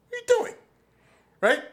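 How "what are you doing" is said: high, loud yelled challenge; shouted confrontation. Retold or imitated. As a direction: yell it to stop him cold. Grabbing a guy in the gym.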